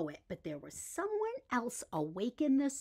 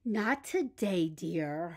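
a touch of a tired sigh, slow; mild sigh; 4 semitones lower, slower than usual. Acted. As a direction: gently turn the child down with a little sigh. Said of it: "her mother sighed".

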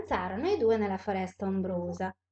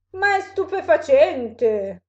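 loud, slow, raised exclamation; amazed; 5 semitones higher, 9 dB louder, slower than usual. Acted. Monster sees the snake flee from mouse, amazed. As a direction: marvel loudly, stretching the words.

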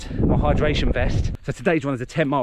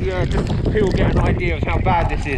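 raised voice over the storm; shouting over wind; 3 semitones higher, 5 dB louder than usual. Real, not acted. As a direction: call out above the gale. Shouting over gale on mountain.

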